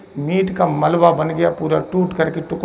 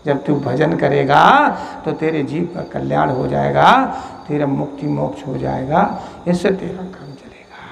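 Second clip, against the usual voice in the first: gentle reassurance; 3 semitones lower than usual. Acted. Holy man gives blessing.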